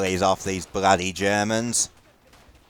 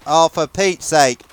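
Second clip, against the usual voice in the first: exasperated outburst; 4 semitones higher, 5 dB louder, slower than usual. Real, not acted. Reacts to blocked grenade.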